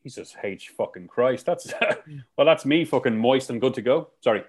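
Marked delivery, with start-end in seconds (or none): 0.0-1.5 awed swear. Real, not acted. Reacting to the sandwich recipe.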